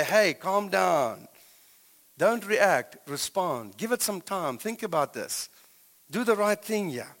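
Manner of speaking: slow, soothing "calm down"; calm voice of wisdom. Acted. Wisdom calming a heated heart, slow and soothing. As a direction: talk them down gently, slowly. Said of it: "wisdom steps in and say".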